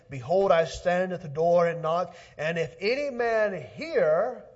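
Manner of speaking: preaching. Acted. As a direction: preach it out to the congregation. Preaching at full force.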